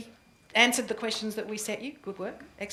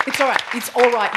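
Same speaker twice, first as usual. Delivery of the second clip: loud reassurance; 11 dB louder than usual. Real, not acted. Reassures nervous presenter over applause.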